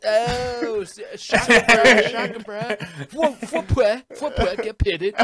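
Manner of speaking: loud, high SoCal surfer impression; hammed-up California surfer-dude accent, way up in pitch. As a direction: whoop it out like a stoked SoCal surfer. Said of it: "like, the SoCal kind of accent".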